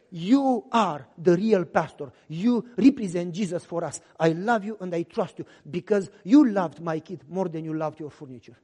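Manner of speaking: mother thanking the pastor, low and grateful. Retold or imitated. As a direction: thank him softly and sincerely.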